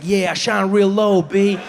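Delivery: laid-back, lightly voiced swagger; swaggy sun. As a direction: play the sun as a cool dude, lightly. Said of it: "a really swaggy sun".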